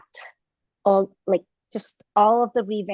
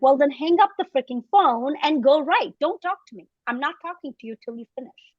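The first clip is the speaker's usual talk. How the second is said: mock stern scolding, higher start; bossy cousin; 4 semitones higher than usual. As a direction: cousin scolds her to go write. Cousin scolds her to write.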